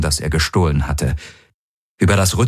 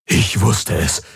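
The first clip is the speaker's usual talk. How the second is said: joyful exclamation; 3 semitones higher, slower than usual. A narrator's reading. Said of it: "rief Hox aus".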